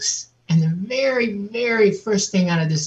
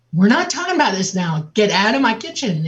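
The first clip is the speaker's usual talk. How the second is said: higher-pitched, firm mother's command; retold stern order; 5 semitones higher, 3 dB louder than usual. Mother throwing her child out of the kitchen, stern order. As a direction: imitate a mother who means it. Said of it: "And she meant it".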